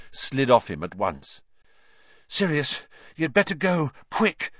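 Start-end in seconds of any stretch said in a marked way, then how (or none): 2.3-4.5 raised, urgent, a touch breathless; panting. A narrator's reading. Harry hurrying Sirius away, slightly out of breath. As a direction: rush it out, climbing to the last word. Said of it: "Harry panted".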